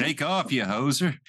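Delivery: mock Canadian hoser; joking Canadian impersonation; bad Canadian accent. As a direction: dismiss them in a put-on Canadian accent. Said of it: "this is bad impersonations and accents".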